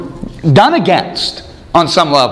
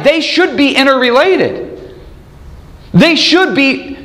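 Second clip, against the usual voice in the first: slow emphasis; 9 semitones higher, slower than usual. Real, not acted. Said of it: "emphatic repeat".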